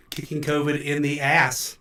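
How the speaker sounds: roomy reverb on the voice; big hall echo. Real, not acted. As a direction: sound like a bare echoing hall. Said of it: "sorry about the reverb".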